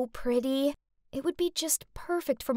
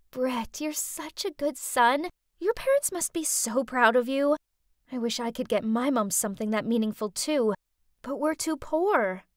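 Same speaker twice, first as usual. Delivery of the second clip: doe-eyed flattery. Acted. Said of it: "my best doe-eyed look".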